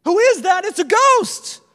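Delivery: shrieking high and loud in panic; frightened shout. Acted. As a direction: cry out as if you've seen a ghost. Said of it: "The disciples scream".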